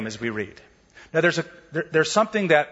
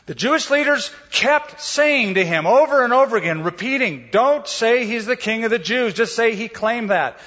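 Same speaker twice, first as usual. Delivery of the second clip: higher, louder, insistent retelling; expanded dramatic reading; 7 semitones higher, 3 dB louder than usual. Shown as a demonstration. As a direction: press the leaders' repeated demand. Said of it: "it would sound like this".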